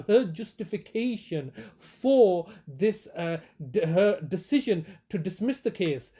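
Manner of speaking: slow and deliberate, each word spelled out; over enunciating. Shown as a demonstration. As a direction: spell it out slowly for a confused listener. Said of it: "let me say this slowly".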